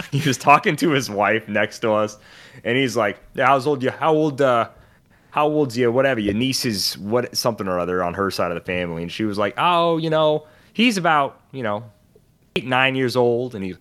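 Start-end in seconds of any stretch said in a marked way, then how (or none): 3.4-9.0 Sopranos-type guy. Retold or imitated. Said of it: "straight out of The Sopranos". 9.6-13.5 wife's voice. Retold or imitated. Wife's answer voiced in story.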